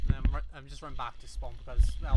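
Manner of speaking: panting while running back; out of breath. Real, not acted. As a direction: talk between heavy breaths. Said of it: "so I am out of breath".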